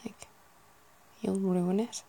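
put-on ruin as roo-en in a light Irish accent; a touch of Irish on ruin. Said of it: "Ireland they tend to say".

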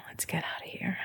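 soft, breathy whisper; hushed, secretive invitation. Acted. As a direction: whisper it close into an ear. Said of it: "you whisper".

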